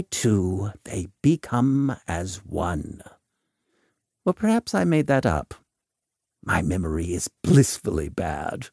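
theatrical, measured doctor giving counsel; Volk, world-weary adviser. Acted.

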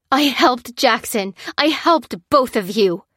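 fume, hammering each word; fuming. A narrator's reading. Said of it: "fumed Lucy".

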